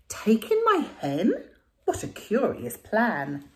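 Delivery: slow puzzled question. Acted. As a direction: wonder at the strange idea, slowly. Lady puzzled.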